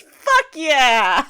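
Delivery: a light, youthful cheer, lightly voiced; Alphonse Elric voice. Cohost quoting in a light Alphonse Elric voice. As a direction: cheer like an eager boy. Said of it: "Alphonse Elric voice".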